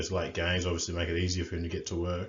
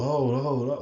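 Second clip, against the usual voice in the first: higher, louder imitated call; mock on-field call; 7 semitones higher, 5 dB louder, slower than usual. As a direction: call it out like a player mid-game.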